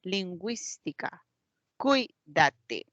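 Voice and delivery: Lingüística stressed on GÜÍS, cuídate on CUÍ; stress on antepenultimate syllable. Shown as a demonstration. Teacher giving esdrújula examples, stressing GÜÍS in Lingüística, CUÍ in cuídate. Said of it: "La mayor fuerza de voz está en la antepenúltima".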